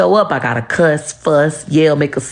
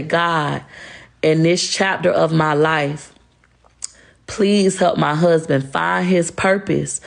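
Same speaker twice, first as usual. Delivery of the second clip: slow, earnest prayer to God; slower than usual. Real, not acted. Praying aloud to God for her husband, slow and sincere. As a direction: pray it slowly and sincerely.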